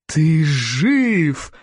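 joyful shout. A narrator's reading. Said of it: "радостно завопил Стоик".

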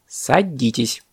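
measured, strict order; stern parrot teacher. Acted. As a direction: command it with mild severity. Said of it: "строго сказал он".

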